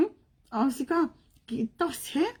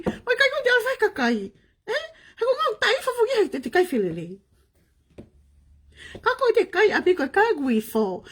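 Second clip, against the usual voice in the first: crying; 8 semitones higher than usual. Real, not acted. Laughing through tears, shouting.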